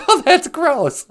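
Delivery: high, slow, put-on voice of disgust; mock disgust. Host faking a listener's disgust at poop talk. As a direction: pull back in hammed-up disgust, drawn out.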